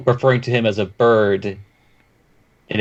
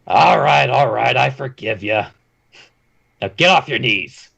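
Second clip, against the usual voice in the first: gruff voice. Acted. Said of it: "he'll say in a gruff voice".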